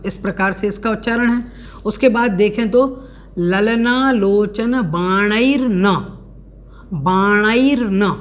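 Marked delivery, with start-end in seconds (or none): 3.4-8.2 "बाणैर्न" said slowly with its r and n clearly joined; slow, deliberate "ललना लोचन बाणैर्न"; careful pronunciation. Shown as a demonstration. Teacher slowly models a hard word for students. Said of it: "इसको विशेष ध्यान रखना है".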